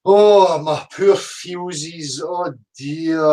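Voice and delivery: pat them on the head, sarcastically; mock sympathy. Mocking the flat earth critics with fake pity. Mocking commenters' hurt feelings.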